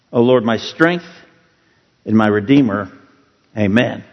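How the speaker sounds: reverent, unhurried prayer voice. Acted. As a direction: ask the Lord's blessing on the reading. Leads a prayer.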